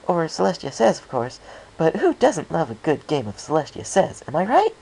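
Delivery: very high, loud, gushing chatter; bubbly Pinkie. A narrator's reading. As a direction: bounce along, thrilled about games. Pinkie chatters about games.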